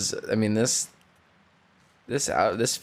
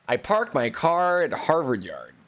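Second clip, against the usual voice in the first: higher-pitched mock Boston accent; 5 semitones higher than usual. Shown as a demonstration. Streamer testing whether it sounds like Boston, hammed-up accent. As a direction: have a go at a broad Boston accent. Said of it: "Does that sound like Boston?".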